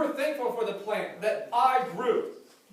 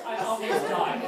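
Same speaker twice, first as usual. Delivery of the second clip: dramatic complaint; 5 dB louder than usual. Retold or imitated. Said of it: "That's how every story starts".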